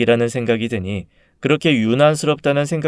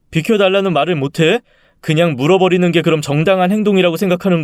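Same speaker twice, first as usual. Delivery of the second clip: higher, insistent husband's rebuttal; exasperated arguing; 4 semitones higher than usual. Acted. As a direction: push back in a heated argument. Husband argues back at wife.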